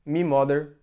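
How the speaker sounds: "me father" with "my" said as "me"; Scouse "me". Shown as a demonstration. Speaker showing Brazilians how Liverpool locals say it, "me". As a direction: swap "my" for a short "me". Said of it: "here they say".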